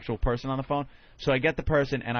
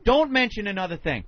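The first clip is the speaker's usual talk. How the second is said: louder, slow, clipped insistence; retold exasperated demand; 6 semitones higher, 4 dB louder, slower than usual. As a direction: lay down the law to the sales rep. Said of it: "I'm like".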